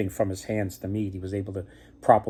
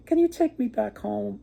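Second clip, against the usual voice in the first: put-on young man pleading; 7 semitones higher than usual. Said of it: "And the young man said".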